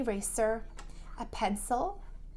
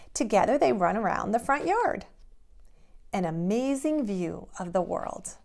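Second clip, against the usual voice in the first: lively, bouncy picture-book narration; animated storytime read-aloud; reading to children; 2 semitones higher, 3 dB louder than usual. A narrator's reading. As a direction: read it like a bedtime story to little kids.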